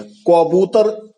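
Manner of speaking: "कबूतर" said slowly, syllable by syllable; slow example word. Shown as a demonstration. Teacher giving an example word, drawn out. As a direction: draw out "कबूतर" at half speed. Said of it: "क कोई चीज नहीं होती है".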